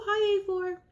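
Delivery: high-pitched wolf toy greeting; playful wolf. Pretend. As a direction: say hello as the wolf puppet.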